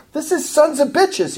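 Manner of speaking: high, pointed mock accusation; harsh accusation. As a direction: fling the insult without softening it. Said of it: "I'm gonna say it with that type of harshness".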